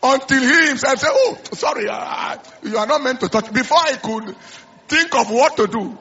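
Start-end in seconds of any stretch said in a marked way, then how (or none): 1.1-3.5 a hammed-up father yelling sorry; mock father's yell. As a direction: shout it like a startled father. Father's sudden cry retold.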